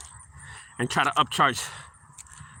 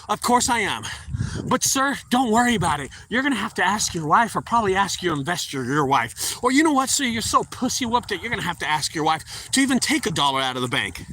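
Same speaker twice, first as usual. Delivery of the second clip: cocky retort; 3 semitones higher than usual. Retold or imitated. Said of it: "What a cocky attitude I had".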